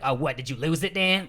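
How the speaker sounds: mock irritation, rising on the name; retold heated taunt. Housemate needling Dan over the lost remote, mock heated. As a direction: needle him, mildly hot. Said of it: "getting super hot about it".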